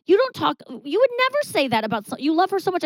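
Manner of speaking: a hint of friends refusing to believe it; mock protest from the friends. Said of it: "And they go".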